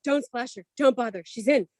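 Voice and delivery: put-on high-pitched excited kid, then hushed; amazed kids. Mother imitating her kids at the pool, amazed. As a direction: announce it like an astonished child. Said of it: "my kids were like".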